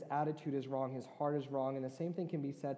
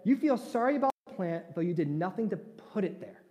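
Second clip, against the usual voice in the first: higher, louder divine rebuke; booming Lord; 5 semitones higher, 8 dB louder than usual. Retold or imitated. Preacher voicing the Lord rebuking Jonah, louder. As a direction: proclaim it as God. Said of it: "Then the Lord said".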